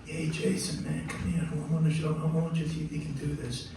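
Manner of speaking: a hint of a quiet musical boss; a famous jazz trumpeter. Bandleader calls young keyboardist over, lightly imitated and soft. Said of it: the bandleader looked up and spoke.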